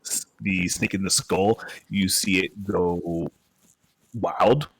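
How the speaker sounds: slow storytelling voice; game master narration. A narrator's reading. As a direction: paint the scene slowly.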